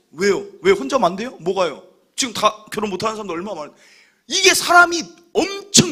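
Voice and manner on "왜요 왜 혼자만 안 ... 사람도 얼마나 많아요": fast, louder annoyed comeback; snappy irritation. Retold or imitated. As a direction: snap back at the nosy congregant. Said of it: "나중엔 탁 얘기만 하려고 하잖아요". (참견하는 성도에게 빠르게 톡 쏘듯 짜증내며)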